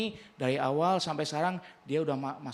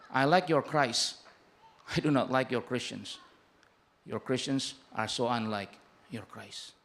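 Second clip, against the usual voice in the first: Gandhi quote; 3 semitones lower, slower than usual. Retold or imitated. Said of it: "Mahatma Gandhi ngomongnya seperti ini".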